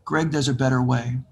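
mysterious voice. Retold or imitated. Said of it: "I hear this voice".

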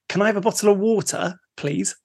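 put-on British accent with crisp T's; careful British accent. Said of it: "pronouncing your T's for".

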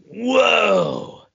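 put-on wide-eyed child tasting something spicy; kid's amazed reaction. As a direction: squeal it like a surprised little boy. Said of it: "he was like".

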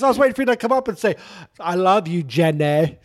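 laughing Tom Hanks. Retold or imitated. Tom Hanks joking with Ken Jeong, fast laughing voice. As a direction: rush it out through a laugh. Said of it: "He goes".

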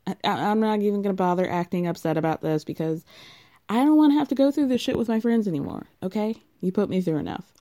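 mock fed-up wife. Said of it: "Stacey's like".

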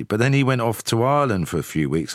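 usual speaking voice

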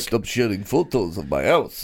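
a lightly put-on old rabbi accent; lightly voiced old rabbi complaining; mock Jewish accent. Joking to a friend, lightly voicing an old rabbi. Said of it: "funny Jewish accent".

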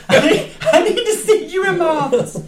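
high, laughing, stammered repeat; stuttering principal. Retold or imitated. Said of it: "He stuttered when he said it".

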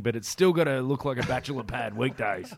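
lightly voiced single dad musing; a hint of a weekend dad thinking aloud; mock single dad. Friend imagines the newly single dad futon buyer, lightly voiced. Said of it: "that was for the newly single dad".

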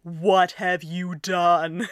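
very slow, drawn-out "What have you done?"; exaggerated bewildered "What have you done?"; mock dismay. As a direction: stretch it out as if your brain just broke. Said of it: "the person in the next line saying".

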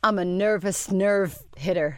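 slow, attempted American accent; careful mock-American delivery. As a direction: put on an American accent, leaning on the r's. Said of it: "Was that your American accent?".

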